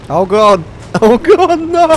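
loud, high cries through laughter; laughing alarm. Real, not acted. Player watches buildings topple, loud laughing alarm. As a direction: cry out high, cracking up.

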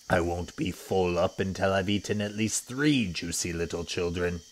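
a sly, greedy beast gloating over lunch; greedy crocodile. Acted. Crocodile speaks to himself.

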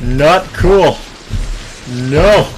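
high panicked pleading, slowed down; scared horror game streamer. Pretend. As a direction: shriek it like you're about to die. Panicked gamer as character attacked.

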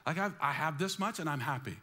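a contented person bragging, hammed-up cheer; mock beaming happy. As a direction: smile through the words, hammed-up joy. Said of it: "let's smile again".

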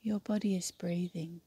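unhurried yoga nidra guidance with long pauses; guided meditation. Acted. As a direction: guide them through the breath, leaving space between phrases. Leads yoga nidra breathing.

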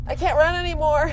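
high, loud wail while fleeing; panicked cry. Real, not acted. Fleeing a monster in game.

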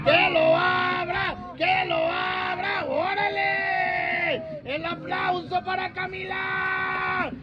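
drawn-out shouted calls; party call. Real, not acted. Urging Camila to open her gift, slow shouted calls. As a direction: call out slowly to the crowd.

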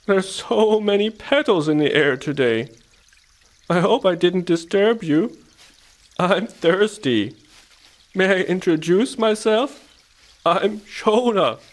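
high, leisurely sheep voice; polite sheep. A narrator's reading. Sheep greets hedgehog and mouse, polite. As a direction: introduce yourself in a high, stretched-out voice.

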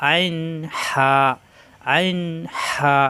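"আইন হা" squeezed from mid-throat; held "আইন", then raspy-aired "হা" from mid-throat; pressed throat. Shown as a demonstration. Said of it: "চাপ দিয়ে উচ্চারণ".

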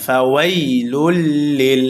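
measured ফাওয়াইলুল লিল, vowels not held; no vowel stretch. Shown as a demonstration. Teacher showing no madd, measured ফাওয়াইলুল লিল. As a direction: lean on the doubled ল of লিল. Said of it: "কোনো টান হবে না".

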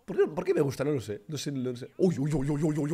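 ordinary talk, nothing marked

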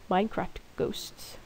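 slow whispered joke; spooky whisper. Pretend. Joking to viewers about ghosts clicking in the room. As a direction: hush it like a ghost story.

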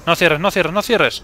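panicked shouting. Real, not acted. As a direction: yell at the door not to close. Pleading as door closes.

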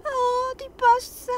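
slow, crying plea; slow tearful pleading. Acted. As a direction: beg through tears, slowly. Comforting a crying friend.

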